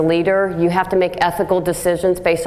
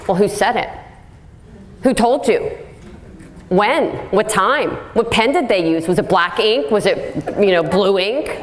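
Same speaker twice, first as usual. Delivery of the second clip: mock defensive questioning; 2 semitones higher than usual. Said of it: "here's a classic one".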